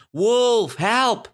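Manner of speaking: high-pitched repeated cry for help; acted shouting. Shepherd boy running to the village, mock shouting. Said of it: "and he was shouting".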